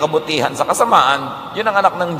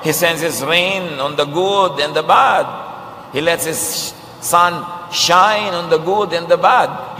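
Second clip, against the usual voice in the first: slow solemn recitation; 3 semitones higher, slower than usual. Acted. Slow solemn restating of verse.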